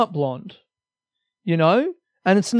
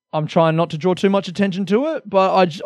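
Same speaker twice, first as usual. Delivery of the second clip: usual speaking voice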